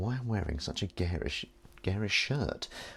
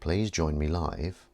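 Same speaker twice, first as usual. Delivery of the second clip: slow dictation; 2 semitones lower, slower than usual. Acted. Reading out his post title.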